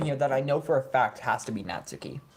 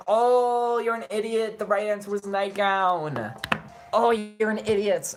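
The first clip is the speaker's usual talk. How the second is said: mocking scolding; 3 semitones higher, slower than usual. Player mocks a wrong word pick, drawn-out scolding. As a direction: stretch it out, mocking a silly mistake.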